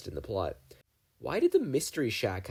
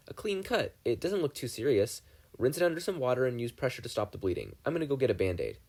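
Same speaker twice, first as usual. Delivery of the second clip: a hint of a calm helpful teen, pitched higher; higher, matter-of-fact first-aid advice; lightly voiced teen boy; 4 semitones higher than usual. Stephen calmly tends the cut.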